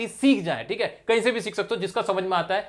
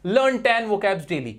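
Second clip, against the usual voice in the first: slow dictation; much slower than usual. Shown as a demonstration. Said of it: "dictating a rule".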